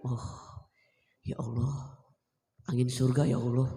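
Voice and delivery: hushed, breathless ya Allah; awed whisper. Real, not acted. Student whispers thanks to God after teacher's promise. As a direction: whisper it in grateful relief.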